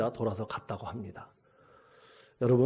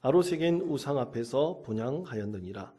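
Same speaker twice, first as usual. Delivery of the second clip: measured solemn Bible reading; scripture reading. Acted. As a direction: read the verses as holy text, steady and even. Pastor reads Hosea scripture aloud.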